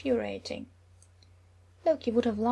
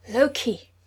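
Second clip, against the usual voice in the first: alarmed cry; 2 semitones higher, 9 dB louder than usual. Acted. Thor appalled at brother.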